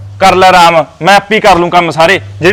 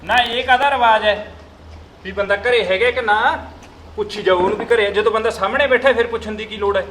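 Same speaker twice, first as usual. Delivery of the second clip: much softer sulky complaint; grumbling; 10 dB quieter than usual. Acted. Son sulkily grumbling about the neighbour's question. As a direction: mutter it, barely audible.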